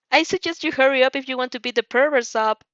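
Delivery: cheerful. Acted. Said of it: "you cheered".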